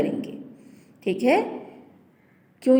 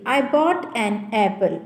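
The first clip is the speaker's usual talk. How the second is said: pron demo; much slower than usual. Shown as a demonstration. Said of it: "second sentence देखिए".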